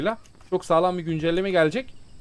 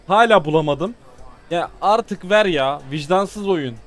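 fed-up pleading; 5 dB louder, slower than usual. Real, not acted. Game keeps giving bad cars.

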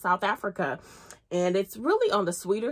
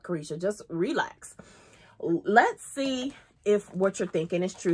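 whispered, telling herself to relax; calming self-talk; 2 semitones lower than usual. Retold or imitated. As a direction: hush yourself down. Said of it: "So I said".

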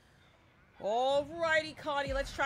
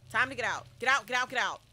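urgent; 5 dB louder than usual. Real, not acted. Urging teammates out.

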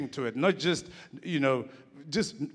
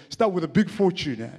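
higher imitation of a strong Jewish accent; Ronnie Aptieka; 3 semitones higher, 4 dB louder than usual. Filmmaker friend answering his own riddle, imitated Jewish accent. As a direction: land the punchline in the friend's thick accent. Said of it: "he speaks in a strong accent".

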